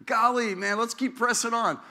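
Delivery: mock-cheery pastor urging folks to keep pressing on; upbeat encourager. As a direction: chirp it like a cheerful buddy cheering someone on. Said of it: "I'd rather be the guy that goes".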